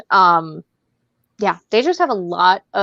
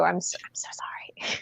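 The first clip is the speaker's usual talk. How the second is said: mock apology; 14 dB quieter than usual.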